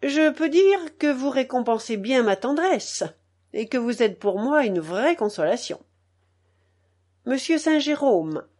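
grandmother's emphatic scolding; leaning on every word. A narrator's reading. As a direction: weigh each word with bitter irony. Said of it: "en appuyant sur chaque mot".

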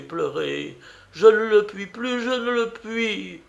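put-on high, distressed outburst from an old aunt; exasperated aunt. Aunt who can feign no longer, exasperated outburst. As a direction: start loud and high, dip, then rise to a pleading peak.

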